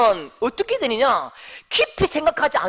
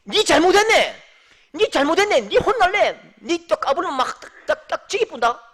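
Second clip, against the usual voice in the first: loud, higher mock scolding in dialect; hammed-up threatening rebuke; preacher mimicking someone who blames others, loud mock scold; 5 semitones higher, 5 dB louder than usual. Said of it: "요렇게 할 수 없는 거예요".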